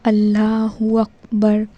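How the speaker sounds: اللہ اکبر drawn out, both words distinct; two words joined. Shown as a demonstration. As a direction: join اللہ and اکبر slowly and clearly. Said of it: "جب آپ دونوں کو ملائیں گے".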